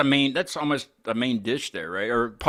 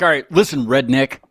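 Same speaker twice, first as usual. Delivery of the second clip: mock tough comeback; 9 dB louder than usual. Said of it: "be like".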